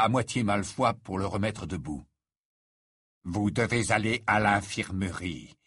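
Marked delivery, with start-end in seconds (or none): 3.2-5.5 lightly voiced, low and measured professor; stern Rogue. Professor sending the wounded boy to the infirmary, grave.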